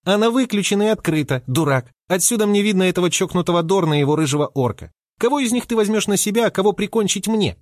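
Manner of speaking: high, bossy little squirrel voice; a tiny rodent itching for a fight; feisty squirrel. A narrator's reading. Squirrel character voice.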